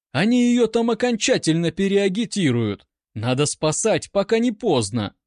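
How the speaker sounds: panting, rush the warning out; breathless alarm. A narrator's reading. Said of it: "тяжело дыша и едва поспевая". (запыхавшись, тревожно)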